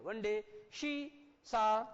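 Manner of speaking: "she" with sh, then a separate "saw"; sh in "she", plain s in "saw"; she-saw distinction. Shown as a demonstration. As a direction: pause between "she" and "saw". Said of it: "ये वाला बच्चों उच्चारण देखो".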